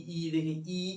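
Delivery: ई with lips spread flat; long spread ई; vowel ee. Shown as a demonstration. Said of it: "ई करते हैं तो हम लोग का जैसे मुंह".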